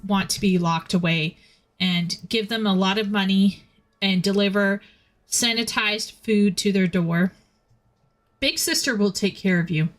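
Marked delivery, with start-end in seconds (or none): 1.8-9.9 customer service voice. Acted. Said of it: "you sound like an A I".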